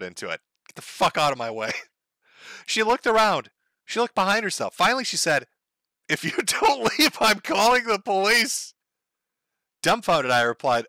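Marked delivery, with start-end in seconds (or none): 6.1-8.7 higher, slow, laughing warning; half-laughing mock neighbour; mock woman's threat. Imitating the neighbour threatening to call police.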